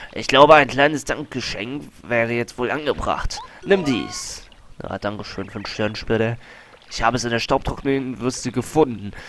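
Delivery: big booming praise; loud vain explorer. Acted. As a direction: puff up like a famous archaeologist. Colorado continues boasting.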